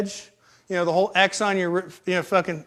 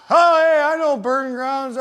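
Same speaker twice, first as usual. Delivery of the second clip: delighted recognition; 5 semitones higher, slower than usual. Retold or imitated. Vagrant hearing the last name Burn Ground, delighted recognition. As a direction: act thrilled to recognise a name.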